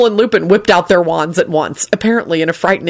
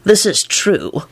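thoughtfully; 2 semitones higher, slower than usual. A narrator's reading. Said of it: "replied thoughtfully".

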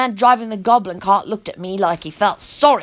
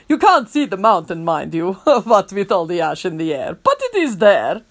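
calm; 3 semitones lower than usual. Acted. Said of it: "the man replied calmly".

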